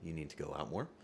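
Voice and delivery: ordinary talk, nothing marked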